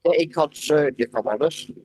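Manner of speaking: glitchy robotic call audio; choppy robot-like line. Real, not acted. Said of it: "you sound like a robot".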